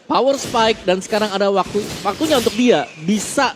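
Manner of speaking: esports caster. Real, not acted. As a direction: punch each word with hype. Caster hyping a power spike.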